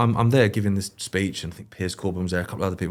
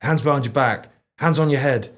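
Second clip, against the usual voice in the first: barked police orders, higher and louder; mock cop commands; 5 semitones higher, 4 dB louder than usual. Mocking American police shouting at a suspect, barked orders. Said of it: "in America, they'll go".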